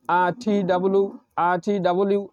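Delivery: quick repeated letters in one breath; fast drill. Shown as a demonstration. Teacher shows the tongue-twister drill at speed. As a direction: rattle off এই যে এই খেই quickly. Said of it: "এভাবে এক নিঃশ্বাসে".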